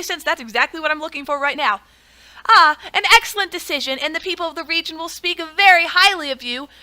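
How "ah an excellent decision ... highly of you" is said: pleased librarian. Acted. Librarian thanks the ruler.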